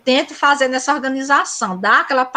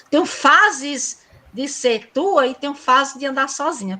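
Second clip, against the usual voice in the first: poem recital. Acted. Teacher reciting Cecília Meireles' Lua Adversa to colleagues. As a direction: stretch Tenho fases and let the lines sing. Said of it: "quando ela diz assim".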